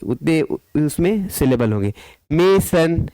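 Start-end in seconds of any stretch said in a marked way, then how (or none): 2.3-3.1 "मेसन" in two separate beats, मे, सन; split into syllables. Shown as a demonstration. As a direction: break "मेसन" between its syllables. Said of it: "यहाँ पर दो syllable है देखिए".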